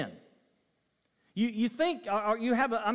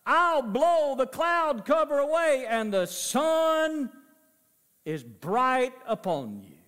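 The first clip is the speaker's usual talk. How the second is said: voice of God; 4 semitones higher, slower than usual. Acted. Preacher voicing God's promise to the congregation, slow and grand. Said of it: "And God says".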